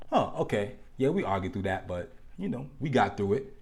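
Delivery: soft, deflated muttering; low-energy pretend contentment; resigned shrug. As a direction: brush it off quietly as if fine. Mimics resigned partner after argument.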